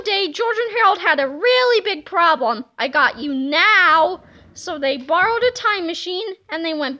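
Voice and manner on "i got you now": slow menacing threat. Acted. Villain threat.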